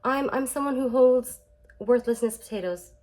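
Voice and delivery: high-pitched mock self-announcement; people pleaser. People pleaser wearing a sign for everyone, mock announcing. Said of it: "or you're just like".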